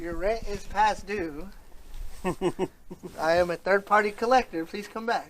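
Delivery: debt collector voice. Pretend. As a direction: demand payment like a collector. Debt collector call into drain.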